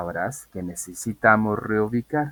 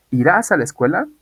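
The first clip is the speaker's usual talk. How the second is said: loud example question; 6 semitones higher, 7 dB louder than usual. Shown as a demonstration.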